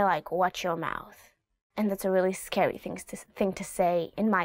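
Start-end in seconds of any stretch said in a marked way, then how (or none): 0.3-1.2 low, quieter "Watch your mouth"; stern warning. Shown as a demonstration. Parent warning a child who curses, low and stern. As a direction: warn a cursing child quietly. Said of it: "you can say".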